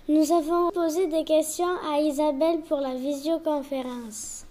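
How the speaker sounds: slow, careful newsreader delivery; child anchor opening the school news; news read. Acted. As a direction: announce the headlines slowly to the class.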